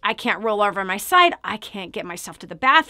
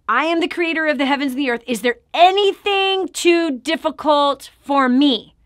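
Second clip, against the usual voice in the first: a lightly raised, solemn voice of God; 5 semitones higher, 4 dB louder than usual. Acted. Opening her show, she voices God proclaiming.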